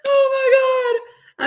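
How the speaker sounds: high, loud and drawn out, half crying; overwhelmed oh my God. Real, not acted. To viewers after the security breach story, overwhelmed cry. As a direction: let it burst out of you slowly and far up.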